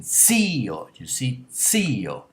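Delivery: "zio" with a long, emphatic "zi"; stress on the I. Shown as a demonstration. Teacher contrasting zio with bacio, stressed drawn-out I. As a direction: stretch and lean on the "i" in "zio". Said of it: "But if it's stressed".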